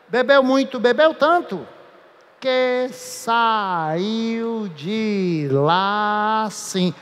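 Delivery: slurred drawn-out tipsy recitation; drunk reading. Shown as a demonstration. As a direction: stretch it like a drunk leaving the bar. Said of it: "Por que que o poeta escreveu desse jeito". (leitura arrastada de bêbado)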